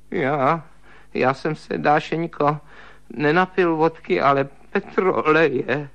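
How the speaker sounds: frightened stammer over "já, já"; halting, broken-up admission. Acted. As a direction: stutter out the confession. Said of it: "zakoktal Stryžin".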